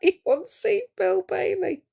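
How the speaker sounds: helpless laugh in the voice. Real, not acted. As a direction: squeak it out through giggles. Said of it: "do you know why I'm laughing".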